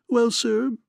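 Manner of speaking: smug fat man purring well, sir; complacent purr. A narrator's reading. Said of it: "His voice was a complacent, throaty purring".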